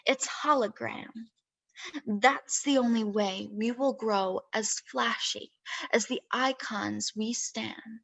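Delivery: deliberate verse recital, pausing at line breaks; spoken-word reading with drawn-out line endings; poetry reading. Acted. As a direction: recite your own poem, phrase by measured phrase. Reads second poem aloud.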